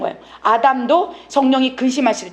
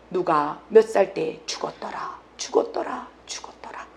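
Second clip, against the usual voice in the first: fading recitation; 5 semitones lower, 6 dB quieter than usual. Acted. Preacher recites the Bible's deaths, fading to a whisper. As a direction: let each repeat die away to near silence.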